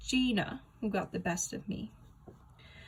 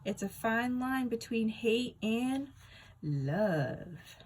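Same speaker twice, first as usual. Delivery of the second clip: teasing; 3 semitones higher, much slower than usual. Acted. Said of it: "Teddy says with a smile".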